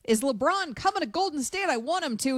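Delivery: lightly voiced fan question; eager fans. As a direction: call the question like a hopeful fan. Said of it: "the fans asked him".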